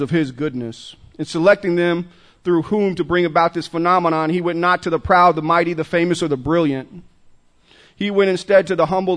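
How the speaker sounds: measured, declarative recitation; reading aloud. Acted. Speaker opens a recovery meeting with a reading, measured recital. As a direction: read it out as a solemn message from God.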